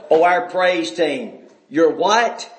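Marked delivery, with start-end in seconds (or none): 0.1-1.4 mocking praise team. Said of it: "do y'all hear this stuff?".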